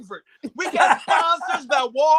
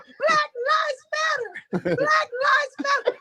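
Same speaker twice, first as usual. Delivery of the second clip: chirpy chant pitched way up; mock a cheerful lady chanting high and bright; perky, much higher chant; happy white lady; 13 semitones higher than usual. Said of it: "Little white lady ... happy as a lark".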